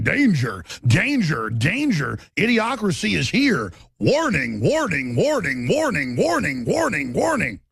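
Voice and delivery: chanted robotic danger warning; mock alarm voice. Gauge in the red blaring its robotic warning. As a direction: drone it like a flashing alarm gauge. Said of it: "the gauge is going over in the red going".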